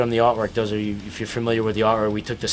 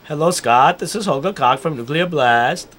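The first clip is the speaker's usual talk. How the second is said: lightly put-on German accent, a bit higher; bad German accent; 6 semitones higher than usual. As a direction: ham up a German label boss on the phone. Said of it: "That's a really terrible impersonation of Holger".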